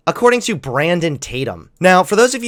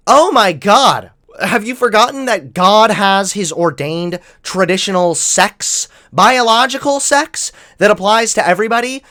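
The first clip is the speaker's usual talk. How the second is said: mock preacher; 3 semitones higher, 3 dB louder than usual. Parodying a religious conservative.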